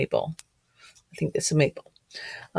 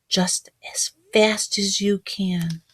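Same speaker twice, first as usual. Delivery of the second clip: whisper; 2 semitones higher, slower than usual. Acted. Reading to children.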